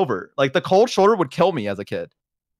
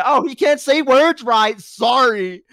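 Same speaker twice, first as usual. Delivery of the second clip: higher, louder and slower, sneering "Oh, he can't say words right"; mocking snob; 7 semitones higher, 4 dB louder, slower than usual. Mocking the educated crowd who sneer at him, snooty. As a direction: ham up a sneering upper-class voice. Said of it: "make fun of the poor lower class".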